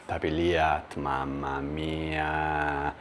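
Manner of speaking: talking round a hot bite; chewing hot pizza while speaking; mouth full of hot food. Real, not acted. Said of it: "masalahnya masih panas banget".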